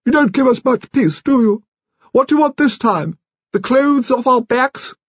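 high-pitched indignant complaint; exasperated, high-voiced old lady calling out; shouted. A narrator's reading. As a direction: scold in a very high grande-dame voice. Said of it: "Lady Lacklandar shouted".

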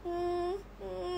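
high little whimpering hums. Retold or imitated. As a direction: whimper softly to win pity. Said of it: "ทำเสียงอยู่อย่างเงี้ย อืม". (ครางเสียงสูงอ้อนๆ)

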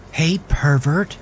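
high, cutting female voice; sneering woman voice. A narrator's reading. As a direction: call him out with contempt. Woman confronts Gavin at gym.

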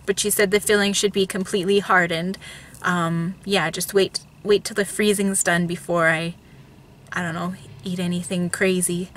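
numb mouth after the dentist. Real, not acted. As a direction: talk with a frozen mouth. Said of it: "because my mouth is frozen right now".

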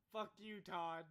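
high giggling curse; laughing. Real, not acted. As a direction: laugh through the words. Laughing at a teammate.

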